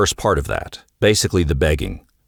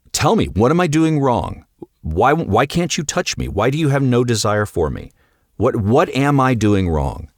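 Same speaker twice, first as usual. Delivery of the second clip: pleading husband; 5 semitones higher than usual. Retold or imitated. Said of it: "you're gonna be like".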